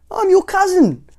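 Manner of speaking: high, loud, slow declaration; clumsy cousin's announcement. A narrator's reading. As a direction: announce it with big cheer. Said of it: "replied Mister Clumsy".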